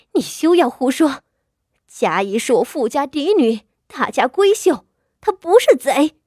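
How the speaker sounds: indignant retort. Acted. The wife defends her daughter against the concubine, indignant. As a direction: push back hard, building to the last word. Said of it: "指着薛姨娘反驳道".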